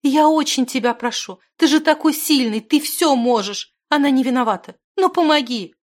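tearful plea, high and loud; a girl's urgent, high-pitched pleading; Зимана. A narrator's reading. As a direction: beg desperately for help. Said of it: "подбежала к нему со слезами Зимана".

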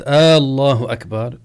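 الله opened on a loud, lengthened "aaa"; questioning long alif. Shown as a demonstration. Teacher explains it becomes a question, long aaallah. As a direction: stretch the first vowel of الله as in aaallahu. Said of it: "يصير استفهامًا".

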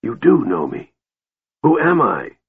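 mildly feverish demand. A narrator's reading. Dying mage questioning the historian, demanding. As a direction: press for an answer, pitch rising on the question. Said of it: "he demanded".

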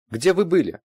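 high curt demand; sharp question. A narrator's reading. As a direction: snap the question. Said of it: "резко спросила Ирина".

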